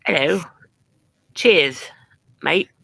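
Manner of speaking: tentative British greeting; short, hesitant British phrases; British accent. Shown as a demonstration. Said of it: "wants to see a British accent".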